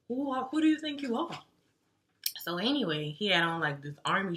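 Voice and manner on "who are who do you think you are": imitated high-pitched indignation; indignant challenge. Guy feels snubbed by the girl, imitated indignant challenge. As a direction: pitch it up, mock affronted.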